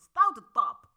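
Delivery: loud mock scolding, as to a small child; playful loud telling-off of the stairs. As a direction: tell off the naughty stairs for a crying kid. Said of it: "dan zeg ik altijd".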